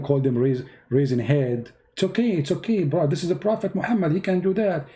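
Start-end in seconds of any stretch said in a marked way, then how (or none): 1.9-4.9 mock believer. Mimics a believer excusing Muhammad.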